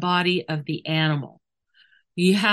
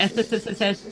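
drawn-out s like a snake; 3 semitones higher, faster than usual. Shown as a demonstration. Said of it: "is a bridge".

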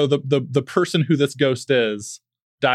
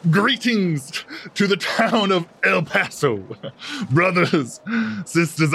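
grand announcement; 3 semitones higher than usual. Acted. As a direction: address the crowd like a snake-oil salesman. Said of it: "when he announces".

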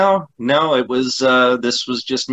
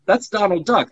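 high quacking duck voice; Donald Duck voice; 9 semitones higher than usual. Shown as a demonstration. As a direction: talk like a cartoon duck. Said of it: "That's not me anymore".

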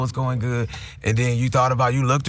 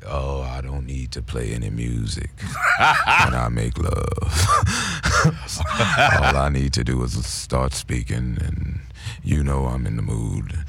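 very low, slow, rumbling impression of a soul singer; 11 semitones lower, slower than usual. Retelling the singer's interview in his deep slow voice. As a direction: sink into a deep crooner rumble. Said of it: "she was like".

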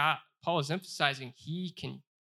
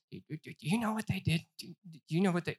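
mock accuser; 4 semitones higher, faster than usual. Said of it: "You can say".

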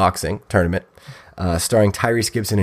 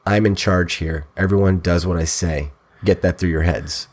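imitating Steven Seagal; 4 semitones lower than usual. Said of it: "and says to the other actors".

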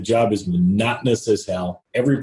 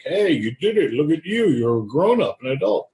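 higher-pitched imagined praise; acted-out congratulations, pitched up; mock super-proud; 6 semitones higher than usual. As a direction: gush like an imagined proud uncle. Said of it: "be like, super proud of me".

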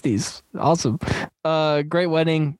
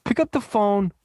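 a hint of a pitchman, higher at first; mimicked sales pitch; 4 semitones higher than usual. Host quoting the movie speech to co-host, lightly mimicked pitch. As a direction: lightly imitate a motivational pitch, punching "Good". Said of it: "It's just like".

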